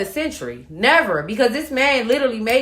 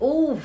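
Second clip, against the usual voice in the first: higher-pitched "ooh" of discomfort; pained ooh; 6 semitones higher than usual. Retold or imitated. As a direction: recall the soreness with an "ooh". Reacting to sudden breast soreness.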